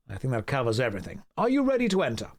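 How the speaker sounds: stern low-voiced head butler; low butler host voice. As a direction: lay down the party rules, low and formal. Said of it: "I'm gonna do the voices for every character".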